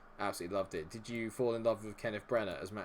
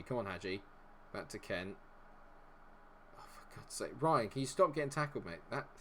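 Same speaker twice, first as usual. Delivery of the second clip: ordinary talk, nothing marked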